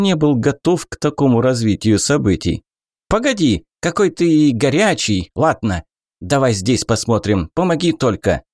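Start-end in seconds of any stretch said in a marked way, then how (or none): 3.1-8.4 goblin voice. Acted. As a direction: back down like a nervous goblin. Goblin backing down.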